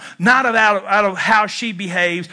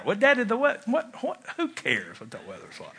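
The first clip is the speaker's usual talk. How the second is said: impatient; 10 dB quieter than usual. Retold or imitated. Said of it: "imitating his impatience with father".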